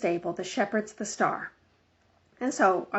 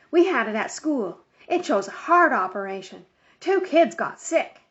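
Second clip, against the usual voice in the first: put-on child voice; 3 semitones higher than usual. Child Charlie.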